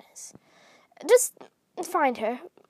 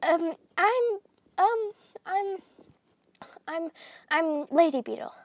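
whispering; 3 semitones higher, slower than usual. Acted. Shy character introduces herself.

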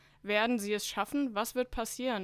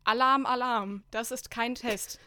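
alarm shout; 2 semitones higher, 5 dB louder than usual. Acted. Emergency message read out.

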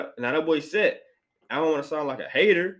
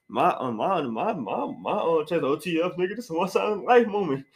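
mocking the lookalike; 4 semitones higher than usual. Imitating the lookalike's story to the listeners, slightly higher. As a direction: act out the nervous lookalike insisting he's cool. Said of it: "he got a little accent to him".

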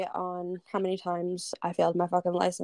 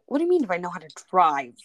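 indignant disbelief; much faster than usual. Real, not acted. Offended at the question.

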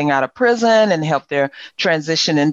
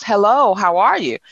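put-on higher opening in a light Virgin Islands accent; 4 semitones higher than usual. Husband first greeting her, Virgin Islands accent. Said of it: "with that Virgin Island accent".

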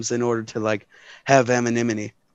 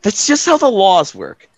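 character voice; 5 semitones higher, 3 dB louder than usual. Acted. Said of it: "She says".

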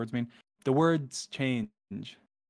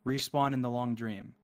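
poem reading. Acted. Gamer reading the End Poem to viewers, hushed and dreamy. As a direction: read it like a dreamy cosmic poem.

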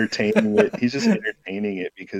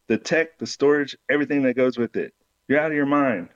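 higher, quick mock outrage; indignant disbelief; 4 semitones higher than usual. Imaru scoffs at Spider's steep cut, mildly raised. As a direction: sputter at the nerve of it.

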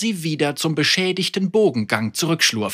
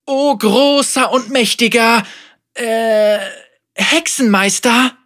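hohe, zögernde Bittstellerin; unterwürfige Anführerin; 8 semitones higher, 4 dB louder than usual. Acted. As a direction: vorsichtig schmeicheln. Margot addresses Vega. (zögerlich unterwürfig)

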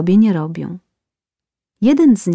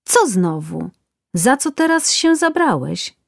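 groaning complaint; 5 semitones higher than usual. Acted. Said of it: "Kazwinczyk jęknął".

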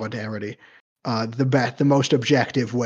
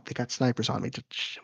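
hushed mock-paranoid whisper; 2 semitones lower, 9 dB quieter, faster than usual. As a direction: hush it like you're being watched. Pretends snipers watch him.

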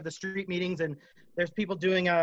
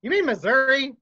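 higher and louder, laughing through the question; laughing disbelief; 7 semitones higher, 7 dB louder than usual. Retold or imitated. Retelling his own reaction to the busker, laughing in disbelief. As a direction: laugh as the penny drops.

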